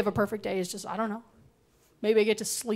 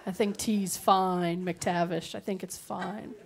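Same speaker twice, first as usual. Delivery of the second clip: slow, low, fading to a mumble; muttered aside; 4 semitones lower, 8 dB quieter, slower than usual. Real, not acted. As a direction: mumble it off under your breath.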